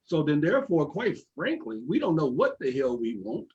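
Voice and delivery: talking around a toothpick; toothpick in mouth. Real, not acted. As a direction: toothpick in mouth, words a bit blocked. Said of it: "I'm sorry for talking with my toothpick in my mouth".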